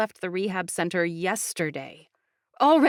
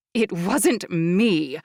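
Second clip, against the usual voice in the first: growling; 4 dB louder, much slower than usual. Acted. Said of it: "she growled".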